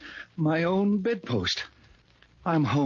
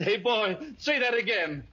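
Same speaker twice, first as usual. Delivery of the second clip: delighted laugh into the words; laughing with joy; 5 semitones higher than usual. Acted. Scrooge asking the newsboy to repeat it, laughing. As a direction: laugh as you ask for it again.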